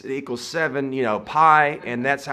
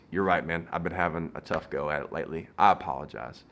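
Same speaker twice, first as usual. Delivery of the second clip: lower, softer imitation of a humbled man; subdued apology; 5 semitones lower, 6 dB quieter than usual. Stranger apologises after being talked down, subdued. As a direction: back down quietly, deflated.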